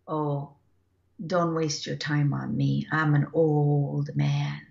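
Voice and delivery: put-on old man cow. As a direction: give the cow a humble old man's voice, slowly. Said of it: "he referred to himself as an old man".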